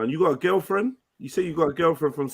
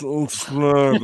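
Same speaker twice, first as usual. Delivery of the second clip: mock slurred speech. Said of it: "that's how you sounded yesterday".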